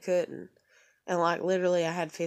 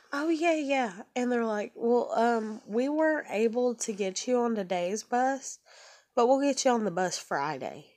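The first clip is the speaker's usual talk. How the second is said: higher, breezy fake-helpful dispatcher voice; sing-song customer-service brush-off, pitched up; mock dispatcher; 5 semitones higher than usual.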